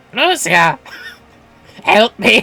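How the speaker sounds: nasal put-on character voice. Voicing a game character calling for help: Chuchurun-like nasal voice. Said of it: "you made him Chuchurun".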